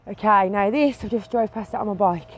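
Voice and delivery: breathless after cycling; panting between words; out of breath. Real, not acted. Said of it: "I'm out of breath".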